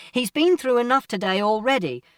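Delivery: high, loud protest; arguing. A narrator's reading. Mother defending son to a man outside, arguing. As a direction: protest loudly on the boy's behalf. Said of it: "there was an argument outside".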